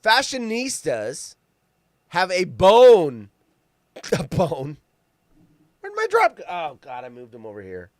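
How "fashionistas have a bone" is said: slow careful reread. Shown as a demonstration. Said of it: "Let's try that again".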